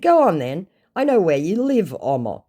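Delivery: high, goading retold dare; mock-menacing taunt. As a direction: egg the scammer on. Acts out own taunt.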